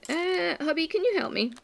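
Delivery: butter him up with a little plea; pleading wife. Retold or imitated. Wife imitating herself begging her husband for help. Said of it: "I have to go".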